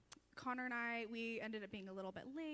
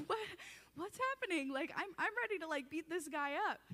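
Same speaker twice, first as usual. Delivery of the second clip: alarmed owner, retold; 7 semitones higher, 7 dB louder than usual. Alarmed house owner quoted.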